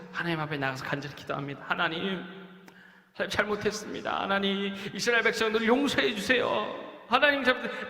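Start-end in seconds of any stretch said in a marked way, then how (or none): 1.7-7.9 earnest prayer. Acted. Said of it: "모세가 간절히 하나님 앞에 기도합니다".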